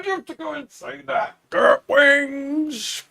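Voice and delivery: piping high silly voice; excited high squeak about chicken wings; squeaky high voice. Real, not acted. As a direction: chirp it up in a squeak.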